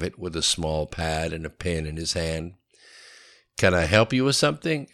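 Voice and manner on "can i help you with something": higher, mildly testy question; edge in the voice. A narrator's reading. Katie to a man by her car, edgy. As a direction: ask it with a slight challenge. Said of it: "with an edge to her voice".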